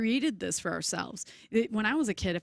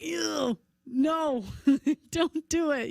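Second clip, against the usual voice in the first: mock disgust; 7 semitones higher, 3 dB louder, much slower than usual. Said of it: "And then I'm like".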